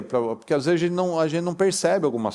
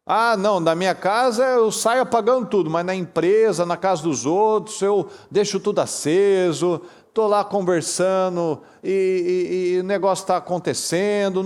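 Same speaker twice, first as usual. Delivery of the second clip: mock wasteful person; 4 semitones higher than usual. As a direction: play the hypocrite who saves only at home. Mocks wasteful person's attitude.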